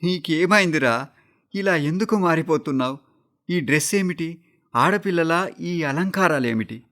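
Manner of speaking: begging him through tears; crying mother's plea. A narrator's reading. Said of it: "ఏడుస్తూ అడిగింది".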